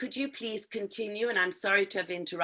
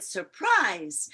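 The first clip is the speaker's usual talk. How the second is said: imitating her excited exclamation, louder; exclaimed surprise; 5 dB louder than usual. Teacher echoing student's reading, excited exclamation. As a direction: copy the student's lively Surprise. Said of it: "the way Angie read was she said".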